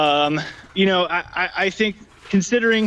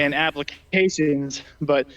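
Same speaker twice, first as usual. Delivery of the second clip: breathing heavily after climbing a hill; winded, breathy between words; 3 semitones lower than usual. Real, not acted. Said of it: "sorry, I'm breathing a little heavy".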